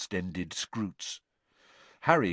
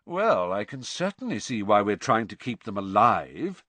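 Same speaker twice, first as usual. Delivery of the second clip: sarcastic; 3 dB louder than usual. Acted. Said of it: "said Malfoy sarcastically".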